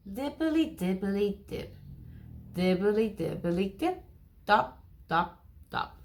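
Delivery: rain sounds. Shown as a demonstration. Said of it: "He can sound like the rain".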